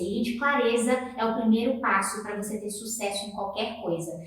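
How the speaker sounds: ordinary talk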